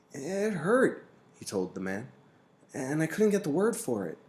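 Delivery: put-on a boy telling what hurt; boy Jonas, aggrieved and puzzled. A narrator's reading. Boy complains of pain.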